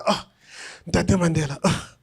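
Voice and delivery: fanboy gushing over a hero; starstruck gushing. Retold or imitated. Young fan meets Mandela, gushing a little. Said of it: "I do that whole thing".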